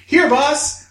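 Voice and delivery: high, excited shout to the boss; eager workers yelling up to the boss; triumphant announcement. Acted. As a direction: burst out loudly with big news. Acting out brain department's announcement.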